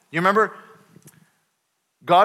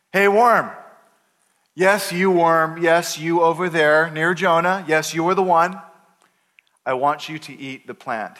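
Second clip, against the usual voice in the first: God commanding. Retold or imitated. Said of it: "God commands worms".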